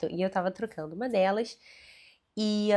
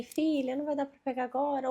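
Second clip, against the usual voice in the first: gentle stalling; 4 semitones higher than usual. Shown as a demonstration. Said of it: "ao invés de eu falar assim".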